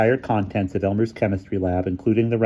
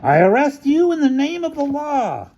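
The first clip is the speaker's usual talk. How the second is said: chorused arrest; 4 dB louder than usual. A narrator's reading. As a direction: announce it together, pompous.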